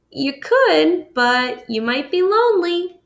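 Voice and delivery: gentle mother. Acted. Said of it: "she said".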